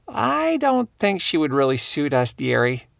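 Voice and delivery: lightly voiced elderly woman; a hint of a sweet old lady. Narrator voices elderly Nora.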